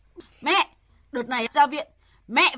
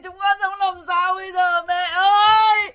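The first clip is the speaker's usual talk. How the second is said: crying out; 3 semitones higher than usual. Acted. Daughter bursting in, crying for mother.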